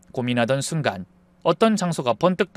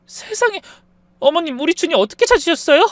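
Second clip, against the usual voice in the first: genuinely curious; 12 semitones higher, 4 dB louder than usual. Acted. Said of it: "진심으로 궁금하다는 듯".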